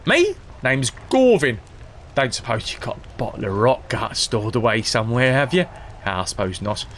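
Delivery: hammed-up old rogue rambling for a bottle; lightly voiced old drunk; old drunk Gorvin. Gorvin continues.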